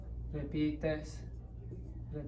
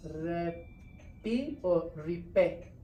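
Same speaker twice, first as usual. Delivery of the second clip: drawn-out syllable demo; 3 dB quieter, much slower than usual. Shown as a demonstration. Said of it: "this E or this E?".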